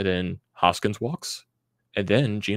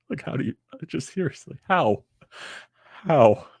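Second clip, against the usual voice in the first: exasperated how; 7 semitones higher, 3 dB louder than usual. Real, not acted. Fan exasperated by team's loss.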